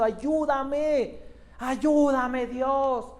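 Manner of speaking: mild mock plea, rising to a cry of help; understated desperate prayer, slowed at first; pleading prayer. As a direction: beg God like a struggling believer. Voiced desperate prayer of believer.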